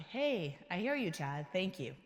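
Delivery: calm, grateful self-talk; gently acknowledging the worry; gratitude. Shown as a demonstration. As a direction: thank the inner voice kindly. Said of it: "Acknowledge it".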